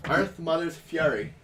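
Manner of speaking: weak Irish accent on Earth Mother's Fury. Shown as a demonstration. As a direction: attempt an Irish accent, barely there. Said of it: "That's my attempt at an Irish accent".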